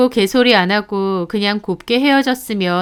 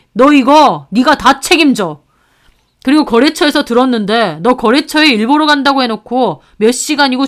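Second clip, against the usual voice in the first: brother shouting; 2 semitones higher than usual. Acted. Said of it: "화가 나서 소리 지르더라고요".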